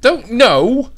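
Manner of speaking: high, loud yelled protest; loud shout. Real, not acted. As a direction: yell it out high. Shouting in game chat.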